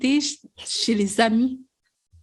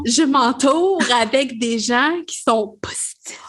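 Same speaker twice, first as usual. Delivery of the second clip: whispered correction. Real, not acted. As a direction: whisper it sheepishly. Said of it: "à partir de maintenant".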